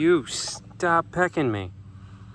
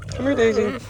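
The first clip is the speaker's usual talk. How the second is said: high, loud sing-song call; calling the pig; 10 semitones higher, 4 dB louder than usual. Real, not acted. Owner calling her pig Daisy, high sing-song call. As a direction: call her over brightly, voice way up.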